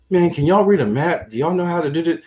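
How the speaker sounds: mock the smug twenty-year-old; cocky youngster. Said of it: "Aaron twenty, think he know everything".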